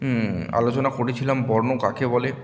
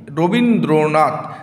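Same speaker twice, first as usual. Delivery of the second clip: "রবীন্দ্রনাথ" loud and slow, beat by beat; syllable demonstration; 5 dB louder, slower than usual. Shown as a demonstration. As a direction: lean on each beat of "রবীন্দ্রনাথ". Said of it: "তাহলে কটি অক্ষর".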